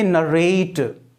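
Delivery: "नरेट" drawn out on the last syllable; verb "-ate" pronunciation. Shown as a demonstration. Teacher models a verb for students, "नरेट" ending "-rate". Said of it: "इसका pronunciation करेंगे".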